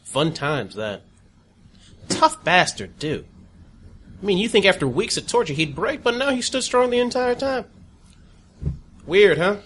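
smug torturer savoring memories; gloating villain. Acted. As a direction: relish every cruel word. NPC gloating about torture.

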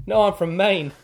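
a light mock of a Maine local's accent. Hiker quoting a Maine man's strong accent. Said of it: "he's got such a strong accent".

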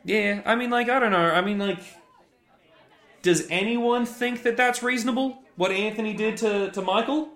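high, loud rabble-rousing shout; angry mob leader. Pretend. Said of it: "can't be expressed in a shout".

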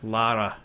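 LARA with the R rolled; Lara, tongue-tapped R in the middle. Shown as a demonstration. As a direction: roll the R in Lara, Scottish style. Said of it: "They roll their R".

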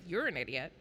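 softly muttering You're an idiot under the breath; a quiet grumbled You're an idiot. Retold or imitated. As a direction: mutter it low to yourself. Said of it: "I said it in that tone".

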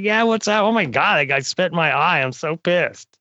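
high-pitched imitation of an annoyed woman; mock indignation. Retelling the woman's reaction to the spit, mock outrage. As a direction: pitch it way up as her retold complaint.

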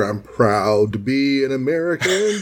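a hint of a proud patriotic voice, different timbre; mock-proud, like a flag-waving ending; patriotic line. Cohost joking about the comic's ending: mild mock patriotic pride. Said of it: "You can almost hear".

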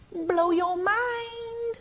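very high, very slow drawn-out awe; awed. Acted. Preacher marveling at the scripture, very slow and high. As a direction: stretch it out in wonder.

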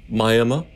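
Miami said my-AM-uh; old-timer's Miami, as my-AM-uh; old-Florida pronunciation. Shown as a demonstration. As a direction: end Miami on uh instead of ee. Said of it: "how old in Florida you are".

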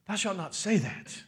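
put-on lofty scriptural accent for the Lord; mock divine accent. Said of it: "certainly not in that accent".

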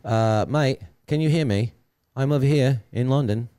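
hammed-up British English; British accent. Shown as a demonstration. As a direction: put on a shaky-grade London accent. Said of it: "I have an accent that I'm working on".

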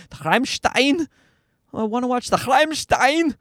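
put-on toddler's high German-accented question. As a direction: imitate a kid nailing a German accent, rolled throaty R. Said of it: "he can nail the German accent".

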